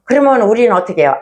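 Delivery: ordinary talk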